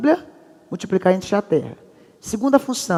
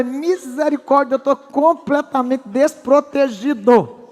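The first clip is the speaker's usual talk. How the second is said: desperate husband; 4 semitones higher, slower than usual. Retold or imitated. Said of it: "Aí eu virei e falei".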